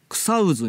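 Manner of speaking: 草渦 said slowly as kusauzu; contracted old form. Shown as a demonstration. Host traces how the name shrank, 草渦 slowly as kusauzu. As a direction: say 草渦 as "kusa-u-zu", voiced zu. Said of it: "になって".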